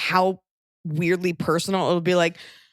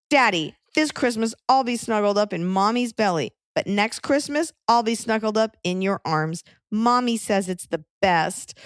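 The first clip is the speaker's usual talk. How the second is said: lightly sing-song cutesy reading, a little higher; a hint of syrupy baby-voice sweetness; mock sweet reading; 3 semitones higher than usual. Shown as a demonstration. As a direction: read it as saccharine as you can. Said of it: "read it again so everyone can fully cringe".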